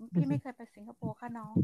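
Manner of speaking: quoting Jiab's quiet, polite denial; softly quoting Jiab. Retold or imitated. Quoting sister Jiab's polite denial to the younger one, said softly. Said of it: "พี่เจี๊ยบบอก".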